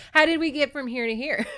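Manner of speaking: high, loud, laughing in disbelief; cracking up at how absurd it is. Retold or imitated. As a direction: blurt it out through a laugh. Disbelieving reaction to absurd plot.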